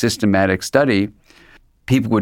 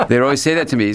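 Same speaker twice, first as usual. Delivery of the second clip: laughing; 5 semitones higher, faster than usual. Real, not acted. Laughing after joke about stoned.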